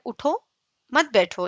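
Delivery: اٹھو alone, a pause, then مت بیٹھو together; pause after اٹھو. Shown as a demonstration. Teacher explains staying standing, pause after اٹھو. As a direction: split it right after اٹھو. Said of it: "یعنی آپ نے کھڑے رہنا ہے".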